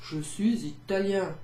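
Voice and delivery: "Je suis italien" in a hammed-up Italian accent. Shown as a demonstration. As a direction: roll it out like an Italian man. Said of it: "I'd probably do it with an Italian accent".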